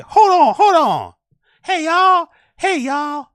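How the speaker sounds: loud, very high mock Black American accent; hacky stereotyped inflection. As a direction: mimic the comic's inflection, pushed up high and loud. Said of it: "that black inflection".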